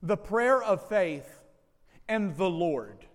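"prayer of faith" slow and loud, then a pause before "the Lord"; twofold emphasis. Shown as a demonstration. Pastor stressing verse fifteen's two points, "prayer of faith" and "the Lord", each set apart. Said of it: "I see the emphasis twofold".

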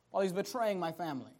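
suddenly low, quick and very soft; hushed bitterness. Acted. Preacher as the betrayed grandfather, hushed bitterness. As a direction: drop the grievance to a low, bitter undertone.

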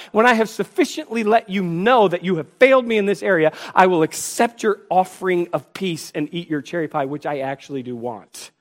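mock sulk, grudgingly giving in; petulant sulking. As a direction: pout while accepting the offer. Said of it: "put on this petulant show".

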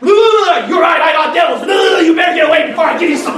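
hammed-up menacing yell through laughter; mock threat.

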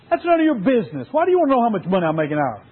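snappy, fast irritated reply; irritated dad. Acted. Dad snaps at his curious son, mildly irritated. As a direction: brush the kid off, annoyed. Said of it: "Dad got a little irritated and said".

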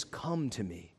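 low, soft invitation; Jesus inviting. Retold or imitated. Jesus calling the crowd, soft and low. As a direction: draw them in tenderly. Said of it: "Jesus says".

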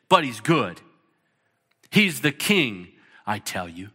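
acting out the Narnia dialogue, lightly voicing each character; story read aloud. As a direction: read the beavers and the girls like a storybook.

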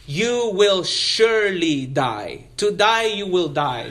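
SURELY DIE spoken slowly and deliberately, each word weighted; emphatic promise. Retold or imitated. Preacher showing how emphatic God's promise is, slow and emphatic. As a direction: lean firmly on "surely die", drawing it out. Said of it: "notice how emphatic the promise is".

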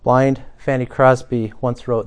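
ordinary talk

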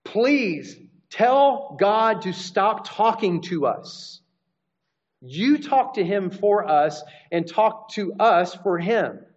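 slow, mildly pleading plea; a touch of frightened begging, drawn out; crying out to Moses. Retold or imitated. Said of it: "they cry out to Moses".

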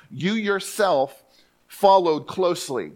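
very slow you yourself, leaning on yourself; stress on yourself. Shown as a demonstration. Preacher shows the Greek intensive pronoun, stressed. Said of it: "And I say "you yourself".

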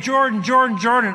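half-shouted call, replayed in the retelling; retold yelling. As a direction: call out for a friend up the mountain. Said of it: "I'm yelling Jordan's name".

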